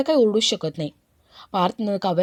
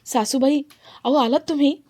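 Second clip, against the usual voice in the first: higher-pitched, welcoming greeting; delighted greeting; 5 semitones higher than usual. Acted. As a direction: greet the mother-in-law with lifted pitch. Son-in-law greets arriving mother-in-law. (सासूबाईंचं उत्साहाने स्वागत)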